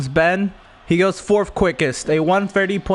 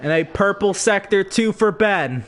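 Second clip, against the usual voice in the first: race commentary. Acted.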